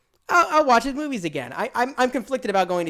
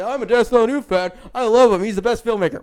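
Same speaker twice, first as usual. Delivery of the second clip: mock fan gushing. Mimicking fans again.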